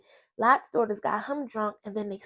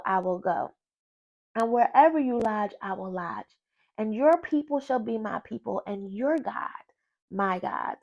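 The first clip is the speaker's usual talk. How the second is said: solemn, measured scripture reading. Acted. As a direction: read it like a sacred vow. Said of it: "But Ruth said".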